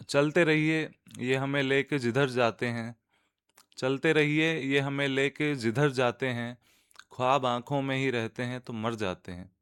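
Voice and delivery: measured Urdu couplet recitation; poetry recitation. Acted. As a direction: recite the couplet, lifting each opening phrase. (शेर पढ़ने का अंदाज़)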